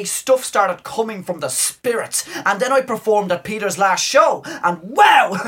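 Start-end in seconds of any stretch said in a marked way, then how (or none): 4.4-5.5 gushing. Acted. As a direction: bubble over with excitement. Theo gushes about the show.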